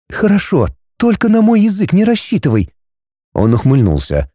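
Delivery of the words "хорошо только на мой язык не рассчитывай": put-on high, teasing young woman; heroine agreeing. A narrator's reading. Heroine agreeing to the dragon, high and pert. Girl's voice.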